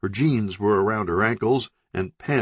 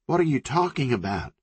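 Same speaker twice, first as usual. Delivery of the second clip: shouted; 7 semitones higher, faster than usual. Acted. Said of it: "shouted Country".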